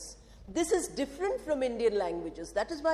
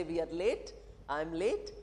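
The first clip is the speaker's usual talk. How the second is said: quiet; 6 semitones lower, 7 dB quieter than usual. Shown as a demonstration. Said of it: "Somebody who came just now can say".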